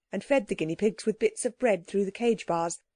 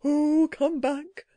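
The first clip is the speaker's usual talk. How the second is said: slow creature plea, pushed a little louder; the creature calling after the startled boy, louder but soft; louder but still soft; 7 semitones higher, 3 dB louder, much slower than usual. A narrator's reading. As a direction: call him back urgently yet still hushed. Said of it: "rather louder, but still softly".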